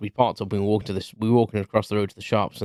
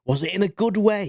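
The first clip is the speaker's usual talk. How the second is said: put-on little old lady; 10 semitones higher than usual. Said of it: "this little old lady came up".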